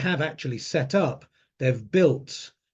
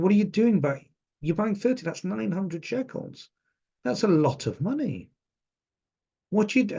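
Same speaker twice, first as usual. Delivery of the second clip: higher, incredulous shopgirl; retold astonishment; 7 semitones higher than usual. Shop girl amazed by thirty tags, high disbelieving voice. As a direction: voice her disbelief, pitched up.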